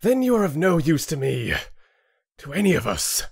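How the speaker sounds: contemptuous snap that fades; spat contempt. Acted. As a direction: spit the dismissal. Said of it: "Rin spat".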